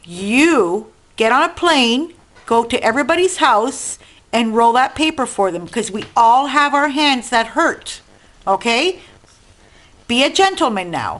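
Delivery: unhurried, spelled-out lecturing tone. Delivering a message to Victor: speaking slowly. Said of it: "I'm gonna speak slowly so you can understand me".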